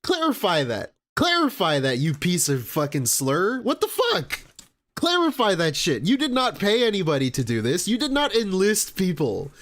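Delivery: high-pitched outburst of disbelief; indignant, demanding a straight answer; outraged. Real, not acted. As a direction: call out a liar in exasperation. Outraged at the clip's claim.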